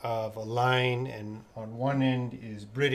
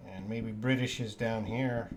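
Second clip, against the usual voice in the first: normal talking voice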